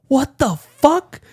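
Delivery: high, slow, disgusted; appalled. Retold or imitated. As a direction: drag it out in disgust. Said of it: "I was like".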